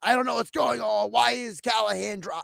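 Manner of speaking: playfully panicked, voice pushed up; mock freaking out. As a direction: act out a flustered young guy freaking out. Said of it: "he's, like, freaking out".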